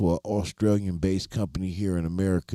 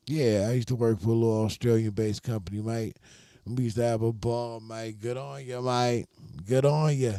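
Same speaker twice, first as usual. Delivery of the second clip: higher, playful Aussie lilt; Australian accent; 3 semitones higher than usual. Pretend. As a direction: slip into a put-on Australian accent. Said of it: "you had to pick up their accent".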